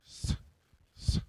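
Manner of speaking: soft steady hiss; snake hiss. Shown as a demonstration. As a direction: keep hissing like a snake. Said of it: "hiss like a snake".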